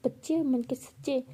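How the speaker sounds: slow, questioning mockery of her words; mocking echo. Pihu mocking Bhavna's saying back to her.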